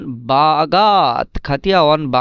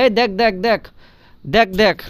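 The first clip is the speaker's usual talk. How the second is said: brusque, higher "এই দেখ, দেখ"; lightly mocked rude tone; rude look-look; 4 semitones higher than usual. Shown as a demonstration. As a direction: bark it out impatiently, like a rude command. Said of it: "আর যদি একটু মানে অভদ্রভাবে".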